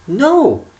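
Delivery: high, loud mock refusal; sharp no. Refusing the beggar, a loud high no. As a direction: snap a high no at him.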